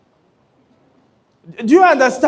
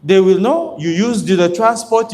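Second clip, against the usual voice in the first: ordinary talk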